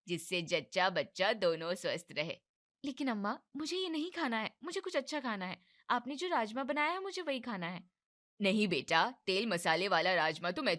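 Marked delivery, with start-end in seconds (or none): 2.8-7.9 higher pleading whine; whining daughter-in-law. Acted. Young wife begs mother-in-law for rajma, higher whine. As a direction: beg like a sulking child.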